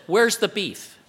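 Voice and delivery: a touch of incredulous questioning; skeptical challenge. Acted. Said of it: "This is what the world says".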